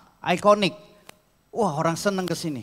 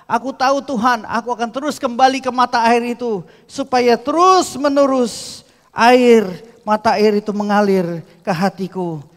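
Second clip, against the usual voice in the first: fervent prayer; 7 semitones higher, 8 dB louder than usual. Acted. Acted prayer of thanks.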